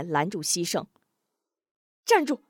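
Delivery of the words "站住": higher and louder stop command; commanding shout; sharp order. Acted. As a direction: halt him at once. Blocking a man rushing off.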